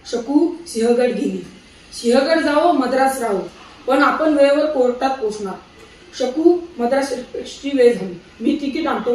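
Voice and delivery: steady, reassuring husband at the station. Acted. Husband tells wife Shaku they'll still reach court, reassuring.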